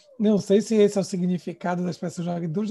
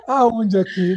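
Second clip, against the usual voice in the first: aonde rindo; 2 semitones higher, 6 dB louder, slower than usual. Shown as a demonstration. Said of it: "Dependendo da entonação".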